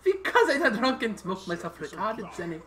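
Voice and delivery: put-on Irish accent. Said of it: "why are you talking in Irish accent".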